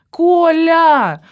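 put-on demanding girlfriend shouting for her boyfriend; loud call. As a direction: yell for him across the flat. Calling louder for Kolya.

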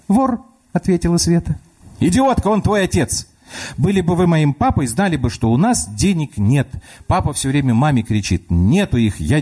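put-on a small girl reasoning through the door; child voice. Little girl talks to grandma through the locked door, child voice. Sveta's voice again.

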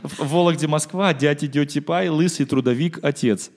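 "Лысый трудовик" chanted loud and slow; kid's misheard lyrics. Retold or imitated. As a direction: belt "лысый трудовик, отец" like a toddler. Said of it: "То есть он пел".

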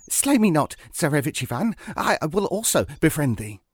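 high, pleading little hare; talking hare. Acted. Hare begging the archer to spare it, high-pitched plea. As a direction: beg for mercy, starting high and sharp. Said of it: "greeted him with a human voice".

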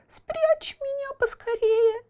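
high, pleading, scared voice; frightened. Acted. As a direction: beg to be hidden, scared. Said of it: "пугливо оглядываясь". (испуганная мольба)

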